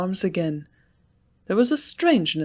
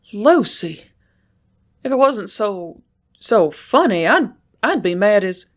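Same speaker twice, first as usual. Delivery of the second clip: louder outburst, halting at the end; bursting out; 3 semitones higher, 6 dB louder than usual. A narrator's reading. Sloane to Lucy, bursting out loud in disbelief. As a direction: blurt it out between disbelief and laughter. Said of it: "burst out Sloane".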